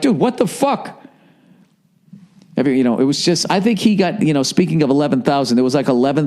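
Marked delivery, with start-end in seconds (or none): 0.0-1.0 imitating Pedroia. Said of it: "He just kept sitting there like".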